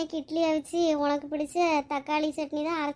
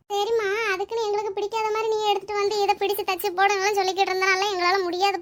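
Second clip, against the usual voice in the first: higher-pitched, mildly whiny protest; protesting child; 4 semitones higher than usual. Acted. Child warns mother against picking disliked dresses, protesting. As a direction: argue back at mum in one long run.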